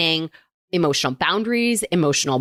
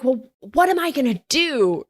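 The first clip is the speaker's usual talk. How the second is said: put-on bored kid; 6 semitones higher than usual. Acting out bored kid's complaint.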